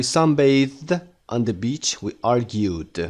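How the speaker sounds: "sunbathed" and "argued" ending in D; very slow model, final D on "sunbathed" and "argued". Shown as a demonstration. Teacher showing learners the voiced ending, "argued" closed with D.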